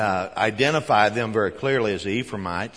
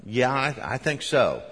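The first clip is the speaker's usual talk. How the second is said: higher, halting imitation of a nervous uncle; imitated nervous uncle, pitched up; uncle's nervous habit; 5 semitones higher than usual. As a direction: lightly mimic a relative's nervous habit of talking. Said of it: "that was his nervous habit".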